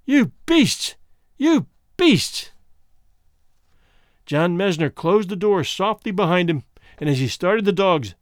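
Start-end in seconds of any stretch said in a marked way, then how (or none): 0.1-2.5 high, sobbing wail; wife sobbing face down on the bunk. Acted. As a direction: cry the words into the bunk.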